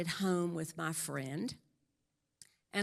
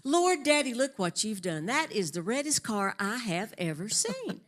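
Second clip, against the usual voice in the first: mock surprised and louder, Lord, Daddy up high; delighted exclamation; 4 semitones higher, 6 dB louder than usual. Wife praising husband's new car, delighted. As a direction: gush over the red car. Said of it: "And she said".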